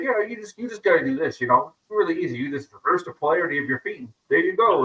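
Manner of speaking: high breezy know-it-all; airy mock mentor; mock guru voice. Mocking a guru's casual advice.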